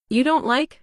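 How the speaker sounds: curious, offended mock German accent; lightly faked German accent, curious and offended; fake German accent. A narrator's reading. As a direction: put on a hammy German accent, a bit hurt. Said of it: "in a curious, offended voice, assuming a fake German accent".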